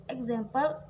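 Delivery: "example" with the stress on its second syllable, ZAM. Shown as a demonstration. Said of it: "it falls on the second syllable".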